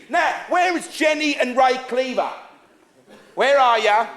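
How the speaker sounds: loud stage call across the house; compère hailing the crowd, loudly. Real, not acted. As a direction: project to find someone in the audience. Calls for audience members by name.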